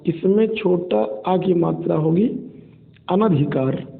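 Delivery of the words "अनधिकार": अनधिकार said with a short a after न, no long आ; correct pronunciation. Shown as a demonstration. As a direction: say अनधिकार clearly as अ-न-धि-कार. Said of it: "बल्कि अनधिकार होता है".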